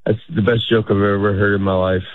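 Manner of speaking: low, unlaughing compliment; sounds like hate. Shown as a demonstration. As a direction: praise it as if you hate them. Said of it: "It sounds like I hate you".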